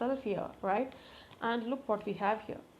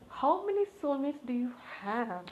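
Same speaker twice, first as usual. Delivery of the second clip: amazed; 5 semitones higher than usual. Real, not acted. Reader amazed at the spread to her viewers, asks in delighted disbelief. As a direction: pitch jumps higher in amazed disbelief. Amazed by repeated soulmate cards.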